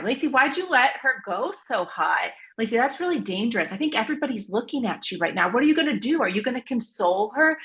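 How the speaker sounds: lightly acted scolding from a friend; a touch of a disapproving friend; lightly voiced judgmental friend. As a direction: play a friend piling on reproach, slightly lifted. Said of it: "imagine that your friend tells you".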